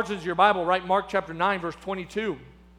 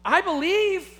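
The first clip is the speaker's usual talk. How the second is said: a father insisting to Jesus that he believes; father crying out; 4 semitones higher than usual. Retold or imitated. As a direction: plead your case eagerly. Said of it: "And the Father cries out".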